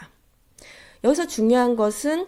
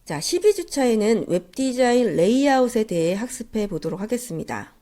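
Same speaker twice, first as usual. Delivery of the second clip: stuffy nose; 2 semitones higher than usual. Real, not acted. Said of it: "감기에 걸린 코맹맹이 소리로".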